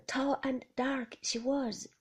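a hint of a simple old fisherman, voiced aloud against the whisper; lightly voiced Ben, confiding; lightly voiced odd old man; Ben's voice.

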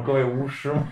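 Beijing auntie twang, laughing; Beijing accent. Retold or imitated. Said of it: "大妈北京腔说".

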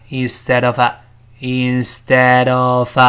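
instead of joined as "in-ste-dov"; slow, linked model of instead of; linked words. Shown as a demonstration. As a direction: slide the d of instead straight into "of". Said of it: "连到一块儿".

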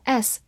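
"S" as a plain hiss, tongue not bitten; S without tongue between teeth. Shown as a demonstration. Teacher demonstrates the letter sound, "S" hissed without biting the tongue. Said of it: "字母S不需要咬舌，直接发S".

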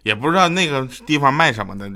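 ordinary talk, nothing marked

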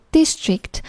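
district as DIS-trict; first-syllable stress. Shown as a demonstration. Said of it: "District这个单词重音在D前面".

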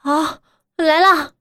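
relieved. Acted. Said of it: "长长地舒了一口气".

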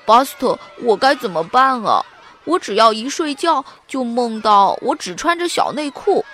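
worried frown. Acted. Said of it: "他皱着眉头说".

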